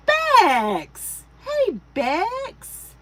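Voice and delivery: loud, high-pitched hello; excited greeting. Real, not acted. Host greets an arriving viewer, excited high call. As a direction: call out in delight to a friend.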